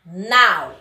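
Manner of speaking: "Afinal" as A... fi... nal, long gaps between; split into syllables. Shown as a demonstration. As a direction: say "Afinal" syllable by syllable, last one loud. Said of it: "vocês irão aí separar".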